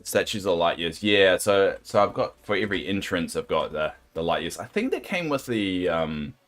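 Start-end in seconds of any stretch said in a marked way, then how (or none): none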